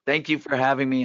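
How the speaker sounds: hoarse, scratchy voice; raspy voice. Real, not acted. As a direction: speak through a raspy throat. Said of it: "thanks for dealing with the raspy voice".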